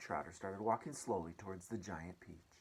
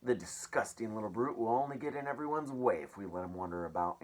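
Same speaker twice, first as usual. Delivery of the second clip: nasty aunt; 2 semitones higher, 6 dB louder than usual. Acted. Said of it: "Aunt Spiker had said".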